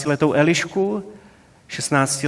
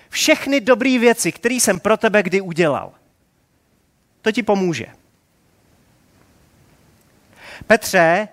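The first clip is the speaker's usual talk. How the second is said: preachy Jesus; 3 semitones higher than usual. Pretend. Imagined Jesus lecturing sinking Peter, mock preachy. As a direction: lecture him smugly instead of helping. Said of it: "a říkal".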